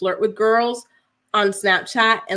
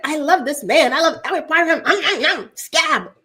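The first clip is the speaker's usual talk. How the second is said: mock adoring lover; 7 semitones higher, 4 dB louder than usual. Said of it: "She was like".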